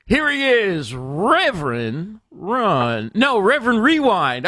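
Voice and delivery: slow, sing-song host intro read; show intro announcer. Pretend. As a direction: announce the show with drawn-out, swooping words.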